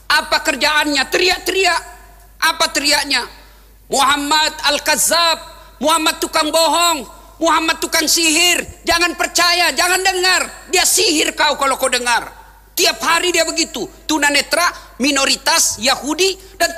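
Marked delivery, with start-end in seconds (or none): 3.9-12.3 mock street shouting. Blind man shouting insults.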